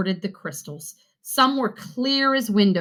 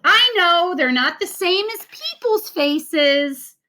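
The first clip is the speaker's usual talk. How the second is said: giggling; 10 semitones higher, 3 dB louder than usual. A narrator's reading. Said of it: "Julie giggled".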